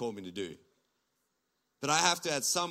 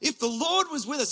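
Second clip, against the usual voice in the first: frustrated Gideon; 10 semitones higher, 5 dB louder than usual. Retold or imitated. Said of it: "he's frustrated".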